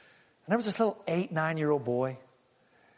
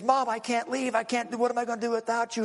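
higher-pitched, mildly distraught plea; retold weeping daughter; 8 semitones higher, faster than usual. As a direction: imitate a grieving daughter, without real sobs. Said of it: "is weeping".

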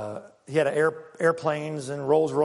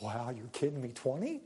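mock amazement; 4 semitones lower, 11 dB quieter than usual. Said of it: "we just expect God going".

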